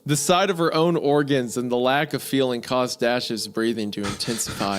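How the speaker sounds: even, measured read-aloud; storyteller's steady delivery, dropping at the end; story narration. A narrator's reading. Reads the story.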